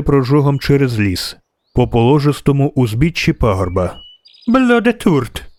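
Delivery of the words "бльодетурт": high, drawn-out cry of alarm; acted high-pitched dryad cry; dryad's yelp. A narrator's reading. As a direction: yelp it high and slow, without extra volume. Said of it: "зойкнула Дріада".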